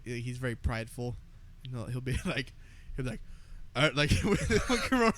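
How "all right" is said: Trump impression. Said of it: "what you're about to imitate".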